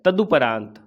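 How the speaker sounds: तदुपरांत mit u in der Mitte, klar gesprochen; तदुपरांत: u statt o nach द; correct form. Shown as a demonstration. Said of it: "ऐसे होता है तदुपरांत".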